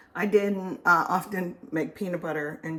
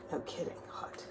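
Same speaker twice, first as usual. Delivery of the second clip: breathy whispered aside; whispering; 11 dB quieter than usual. Real, not acted. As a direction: whisper it to yourself. Whispered aside after burning.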